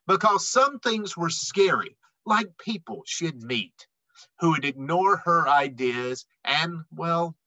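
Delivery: lively rhyming read-aloud; storybook voice for kids; reading to children. A narrator's reading. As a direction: read the rhymes to a young audience. Reads picture book aloud.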